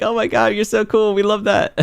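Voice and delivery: high, gushing mock fangirl squeal; gushing fan. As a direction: play the chat fawning over him. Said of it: "They're like".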